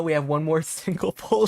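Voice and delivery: ordinary talk, nothing marked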